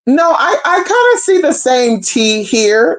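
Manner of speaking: high, slow mock voice; a light put-on of him weighing it up; mimicking him. The man comparing the two women, high slow mock voice. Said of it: "So he's like".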